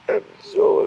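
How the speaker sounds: high, slow whine; moping fan; whiny upset. Real, not acted.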